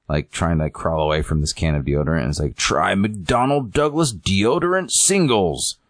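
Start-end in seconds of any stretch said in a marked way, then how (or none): 2.6-5.8 slow, higher-pitched mock ad pitch; commercial announcer. Announcer sells deodorant singles, slow sing-song sales voice. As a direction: stretch the product name like an ad voiceover.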